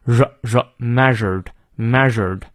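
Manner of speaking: "measured" slowly, its middle sound isolated first; consonant demonstration. Shown as a demonstration. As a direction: draw out the tricky consonant in "measured", between zh and r. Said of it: "非常难念的辅音，就是在之和日之间". (慢速示范"measured"中之和日之间的辅音)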